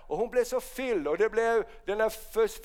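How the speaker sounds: normal talking voice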